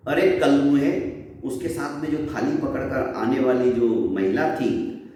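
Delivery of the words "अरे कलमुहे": angry curse. Acted. Chaudharani curses Dagdu at her door, rising and sharp. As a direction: fling "अरे कलमुहे" at him with a rising snap.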